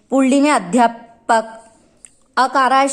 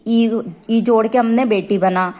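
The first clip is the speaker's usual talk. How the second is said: slow explanation. Shown as a demonstration. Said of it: "आ शब्द आ रहा है".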